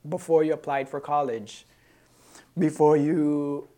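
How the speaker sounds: "before" stressed to open each item of a list; emphasis on before. Shown as a demonstration. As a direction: lean on "before" at the start of each phrase. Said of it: "I want to emphasize on the word before".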